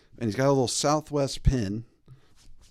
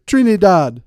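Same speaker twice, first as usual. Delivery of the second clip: proud; 7 semitones higher, 11 dB louder than usual. Retold or imitated. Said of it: "He's like".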